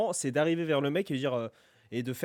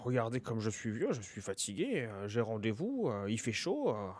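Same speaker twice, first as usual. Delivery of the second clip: put-on tired old man; 4 dB quieter than usual. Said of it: "soit je fais".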